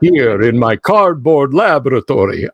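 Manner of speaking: hammy mad scientist gloating; lightly voiced 1930s serial villain; mustache twirling villain. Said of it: "mustache twirling".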